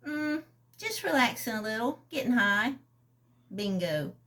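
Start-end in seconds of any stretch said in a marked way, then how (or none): 0.1-2.7 buoyant. Acted. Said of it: "She sounds buoyant".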